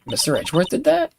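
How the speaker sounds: put-on high, chirpy young girl; bright excited teen sidekick; bubbly girl voice. Girl character voiced in game.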